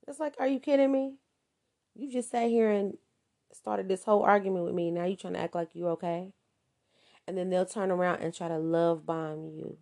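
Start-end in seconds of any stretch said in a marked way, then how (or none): 0.1-6.3 you can't believe their nerve; indignant disbelief. Retold or imitated. Partner answering the narcissist's mockery, indignant. Victim reacting to the taunting.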